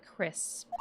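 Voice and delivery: a breathy final whisper. Acted. Spirit whispering the villain's doom. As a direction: let the last word fall to a whisper.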